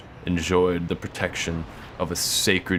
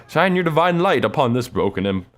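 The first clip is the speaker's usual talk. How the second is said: spirit voice; 8 semitones higher, 4 dB louder than usual. Acted. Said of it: "what voice am I doing?".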